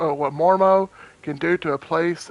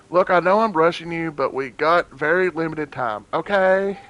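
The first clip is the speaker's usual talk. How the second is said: usual speaking voice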